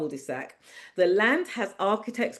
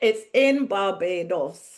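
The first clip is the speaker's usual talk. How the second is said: put-on terrible Bajan accent; 3 semitones higher, 5 dB louder, slower than usual. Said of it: "that was a terrible Bajan accent".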